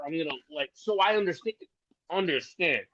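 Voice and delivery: talking through hiccups; words broken by hiccups. Real, not acted. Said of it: "man, I'm sorry if I'm hiccuping".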